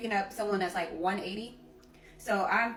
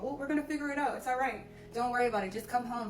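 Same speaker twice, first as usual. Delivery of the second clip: calm reassurance; 3 semitones higher, faster than usual. Retold or imitated. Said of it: "this is how he's saying it on the phone".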